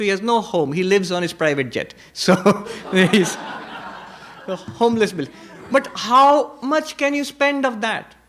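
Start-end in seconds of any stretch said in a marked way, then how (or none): 3.1-8.1 laughing through the words, much higher; real amused laugh as he talks; chuckling, pitch jumping up. Real, not acted. Laughing at the billionaire story.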